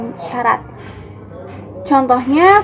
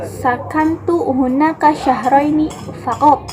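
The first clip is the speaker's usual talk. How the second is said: slow read with "faqat" stressed at the end; 2 semitones higher than usual. Shown as a demonstration. Presenter reading an Arabic example to classmates, "faqat" stressed. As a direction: land firmly on the final "faqat". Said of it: "Kata faqat ini diberi tekanan".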